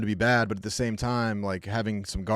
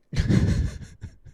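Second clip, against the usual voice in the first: breathy laugh; 4 dB louder than usual. Real, not acted. Laughing at milk fight.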